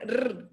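"R" as a rolled Mexican trill. Shown as a demonstration. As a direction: roll the "R" on the tongue. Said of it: "Yo te pronuncio la R". ("R" como erre vibrante)

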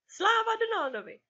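high, loud cheer; jubilant cry. A narrator's reading. Nephews cheer their uncle together, jubilant cry. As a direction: cheer it out like a chorus of boys. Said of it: "vykřikli sborem".

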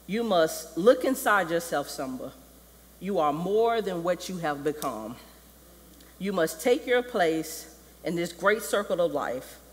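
lightly voiced solemn king; deliberate, declamatory counsel; Mufasa. Father counsels Simba, solemn and measured. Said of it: "Mufasa comes out of the sky".

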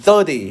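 put-on teaching a kid the th in thirty; English pronunciation demo. Shown as a demonstration. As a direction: show the child how to say thirty, tongue between teeth. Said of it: "แลบลิ้นออกมา".

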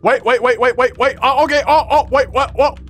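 high, excited and relieved; excited surprise. Real, not acted. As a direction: gasp out happy surprise. Surprised respawn.

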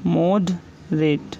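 मॉडरेट drawn out very slowly, syllable by syllable; teacher slowly dictating मॉडरेट to students; slow dictation. Shown as a demonstration. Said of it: "next word है हमारा".

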